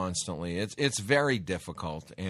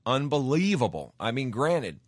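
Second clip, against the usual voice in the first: higher and louder, amazed; a burst of real amazement; excited disbelief; 5 semitones higher, 4 dB louder than usual. Real, not acted. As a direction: marvel at the win. Host reacts to election result.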